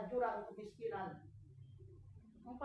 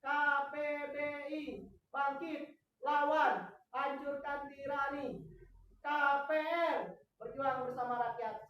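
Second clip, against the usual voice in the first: fiery revolutionary speech; 4 dB louder than usual. Real, not acted. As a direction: bellow each slogan like a rallying cry. Chanting union slogans at rally. (orasi berapi-api)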